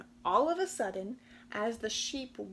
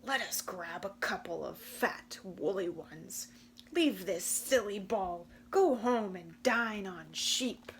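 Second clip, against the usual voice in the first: growled; 2 semitones lower than usual. Acted. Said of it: "Then he growled in both ears".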